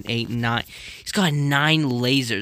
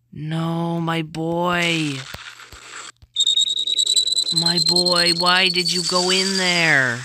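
higher, drawn-out mournful wail; long, pained disbelieving cries; grieving lament; 3 semitones higher, slower than usual. Real, not acted. Mourning the character's fall.

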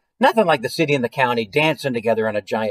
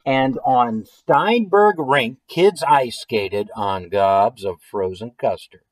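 slow, deliberate read-aloud with drawn-out key words; story narration; slower than usual. A narrator's reading. Reading a silly food-storm story to listeners, story narration. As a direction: read the picture book out slowly. Reads a picture book aloud.

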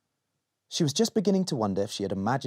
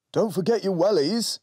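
mild shout; 7 semitones higher than usual. Acted. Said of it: "shouted Dad".

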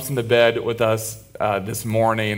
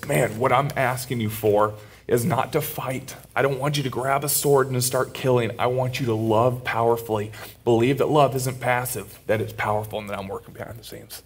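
choked up; 5 dB quieter than usual. Real, not acted. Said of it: "first to cry in the message".

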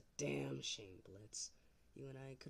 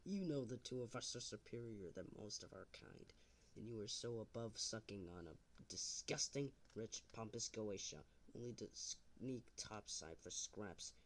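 overacted amateur dub; 3 semitones lower, 3 dB quieter than usual. Low seductive persuasion.

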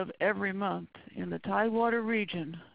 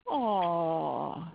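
mock aww; 3 semitones lower than usual. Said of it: "people look at it and go".

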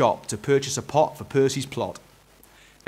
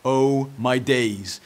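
put-on slow, dismayed child voice; distressed cry; 3 dB louder, much slower than usual. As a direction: drag it out in dismay. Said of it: "Eric cried in distress".

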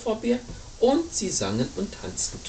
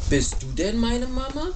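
little bird character; 2 semitones higher than usual. Acted. Little bird asks penguin.

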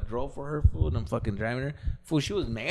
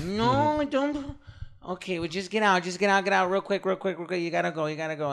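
panicked urging; 5 semitones higher than usual. Retold or imitated. Drunk woman panics at driveway.

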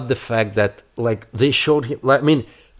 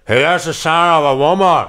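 laughing through "He has a scent of a woman"; 6 semitones higher, 4 dB louder than usual. Real, not acted. Quoting a film title, laughing. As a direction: giggle the movie title.

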